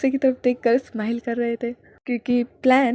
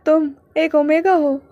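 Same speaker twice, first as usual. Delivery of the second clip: amused question, a touch louder; laughing disbelief; 4 semitones higher, 5 dB louder than usual. Acted. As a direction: laugh the question out in mock surprise. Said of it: "general हंसते हैं और कहते हैं".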